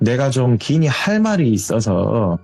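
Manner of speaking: lightly voiced elderly woman; acted grandmother. Grandmother asking the friend to meet, light elderly voice. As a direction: ask as a grandmother with serious business. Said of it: "제가 뭐 연기 톤으로 말하자면".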